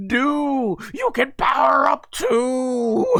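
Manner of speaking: high, drawn-out character cheer; Majin Kuu/character cheering. Retold or imitated. Majin Kuu urging his brother on, high cheering cry.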